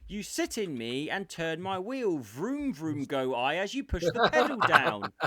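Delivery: David Jason. Retold or imitated. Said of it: "David Jason would go".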